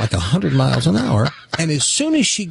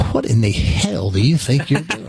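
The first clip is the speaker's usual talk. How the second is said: fuller first take of the cop's outburst; the cop's rougher opening challenge; gruff demand. Retold or imitated. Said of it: "went from kind of being polite to this".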